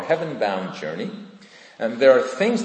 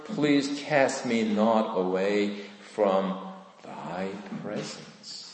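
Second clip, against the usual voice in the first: slow, drawn-out plea; earnest, lingering prayerful begging; begging God; slower than usual. Acted. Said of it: "he's begging God".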